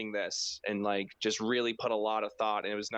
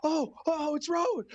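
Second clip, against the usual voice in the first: high squeaky shocked realization; mock the stunned fan, falsetto; pulling a Jericho; 3 dB louder than usual. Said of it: "I was like".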